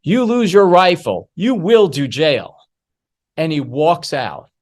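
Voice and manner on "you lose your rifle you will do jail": slow, stern drill instructor bark, a bit higher; a hint of a drill instructor warning recruits. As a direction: lay down the rule like a drill instructor. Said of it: "this disembodied voice of my drill instructor".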